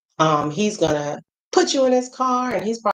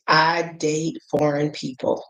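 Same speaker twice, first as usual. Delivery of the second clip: slow, measured confession; deliberate admission; slower than usual. Real, not acted. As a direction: say it slowly, letting each word land. Coy, deliberate admission to viewers.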